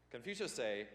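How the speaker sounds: light mock Chinese-accented proverb; a hint of a mock Chinese accent; deadpan mock Chinese-accented line; mock Confucius accent. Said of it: "I will talk like this".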